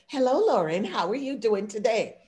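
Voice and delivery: proper, measured workplace hello; office-polite greeting. Retold or imitated. Greeting Lauren at the office, formally polite. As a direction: greet a colleague correctly, buttoned-up. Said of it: "That is code switching".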